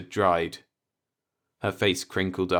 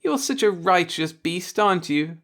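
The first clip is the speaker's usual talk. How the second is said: disarming laugh; 11 semitones higher, 5 dB louder than usual. A narrator's reading. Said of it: "she laughed disarmingly".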